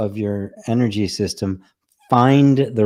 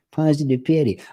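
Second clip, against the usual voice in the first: put-on Irish accent; 5 semitones higher than usual. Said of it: "I just have to say it with an Irish accent".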